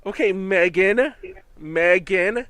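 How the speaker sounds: lilting up and down on the name; sing-song. Real, not acted. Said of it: "in that sing-song voice".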